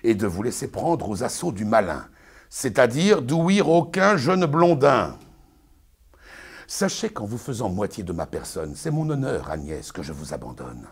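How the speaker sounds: pompous Arnolphe, lecturing his bride; booming, sermonizing stage declamation; hammy stage actor. Acted. Continues Arnolphe's tirade.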